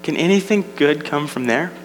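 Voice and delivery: mildly scornful acted question; sarcastic scoff. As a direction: scoff at it with a touch of disbelief. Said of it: "the sarcastic tone in Nathanael's".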